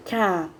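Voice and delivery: "Ca-de-a-do" said as four separate beats; syllable by syllable. Shown as a demonstration. Teacher separating cadeado for students, syllable by syllable. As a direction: tap out each syllable of cadeado. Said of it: "Vamos ver o exemplo do cadeado".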